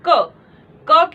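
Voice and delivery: स्पष्ट, धीरे-धीरे उच्चारण; slow sounding out. Shown as a demonstration. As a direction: stretch each sound slowly for students. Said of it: "teacher sounds out the word". (धीमी आवाज़ में शब्द तोड़कर बोलना)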